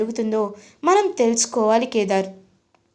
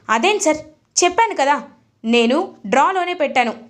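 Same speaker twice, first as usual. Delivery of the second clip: raised, higher mock shout at the boss; deliberate shout; 5 semitones higher than usual. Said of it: "కావాలనే గట్టిగా అరుస్తుంది".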